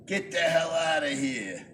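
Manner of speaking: put-on like his New York dad getting riled, New York accent. Recalling dad's phrase, thick New York accent. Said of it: "especially the thick accent".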